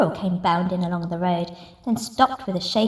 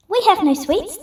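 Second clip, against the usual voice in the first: much higher little ant voices; tiny ants voice; 9 semitones higher, 4 dB louder than usual. Acted. Ants answering the rat in tiny high voices.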